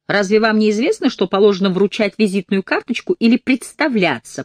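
loud, mocking lecture. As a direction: raise your voice, sneering. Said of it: "Волчица повысила голос".

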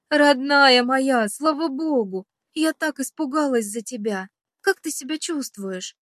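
plain reading voice

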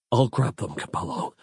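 choking back tears. A narrator's reading. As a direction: voice breaking, fading to a whisper. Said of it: "choking back tears".

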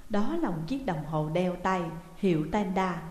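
plain reading voice

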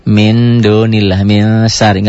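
MIN with the N kept but blurred before the next letter; veiled N. Shown as a demonstration. Teacher showing pupils ikhfa with the N still there, veiled N. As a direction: veil the N in MIN, lightly nasalised into SYARI. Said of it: "N-nya tetap ada tapi samar".

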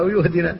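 يهدنا with a ya instead of hamza; wrong pronunciation. Shown as a demonstration. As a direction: say يهدنا with a clear ya at the start. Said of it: "يقول".

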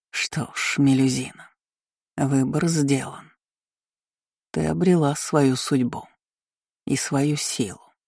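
slow eerie whisper; dark spirit voice, slow; demonic whisper. A narrator's reading. Darkness speaks to Melusine.

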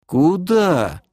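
high-pitched, baffled query; puzzled question. Acted. Elf is told to send her away, puzzled. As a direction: ask it in blank bewilderment.

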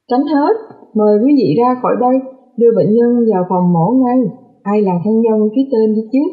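brisk, urgent surgeon clearing the room; urgent order. Acted. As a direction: order everyone out, pressed for time. (ra lệnh gấp gáp, dứt khoát)

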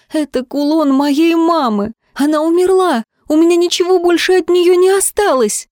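high, loud anguished cry; grief. A narrator's reading. Girl shouting at the man who sold her mother's pendant: high anguished cry. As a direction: pour out the loss at him. Grieving girl accuses thief.

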